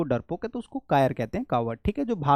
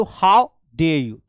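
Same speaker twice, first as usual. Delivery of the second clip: louder, slow, outraged; how dare you; 6 dB louder, much slower than usual. Shown as a demonstration. Teacher demonstrating an outraged how dare you, louder. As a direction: throw the challenge at them. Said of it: "बोलते हैं ना".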